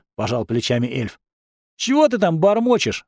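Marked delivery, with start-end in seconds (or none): 1.8-3.0 flaring up. A narrator's reading. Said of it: "взвился Вальдемар".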